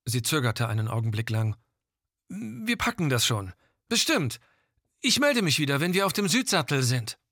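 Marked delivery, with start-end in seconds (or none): 2.3-7.2 over walkie talkie. Acted. Gilda reassures base by radio.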